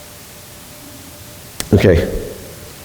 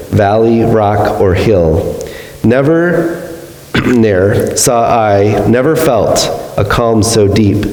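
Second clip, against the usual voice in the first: poem recitation. Acted. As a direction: savour each line like a poet at dawn. Reads the Wordsworth poem aloud.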